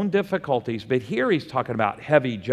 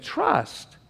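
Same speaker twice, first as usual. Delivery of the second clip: emphatic answer; 11 semitones higher, 4 dB quieter than usual. Real, not acted. Preacher answers his own question.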